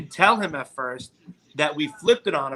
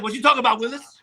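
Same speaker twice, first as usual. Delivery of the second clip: lightly mimicked sitcom catchphrase, pitched higher; Gary Coleman; 6 semitones higher than usual. Quizzing friends on who said it, light catchphrase impression. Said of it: "Gary Coleman".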